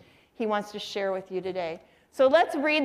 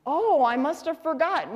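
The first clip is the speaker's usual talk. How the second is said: lightly imitated forgetful dad, higher pitched; a touch of feigned innocence to your wife; mock-innocent husband; 5 semitones higher than usual. Dad plays innocent in quarrel.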